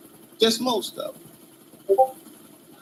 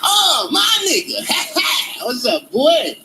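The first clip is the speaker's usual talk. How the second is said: mock overeager white guy; slower than usual. White guy greeting eagerly.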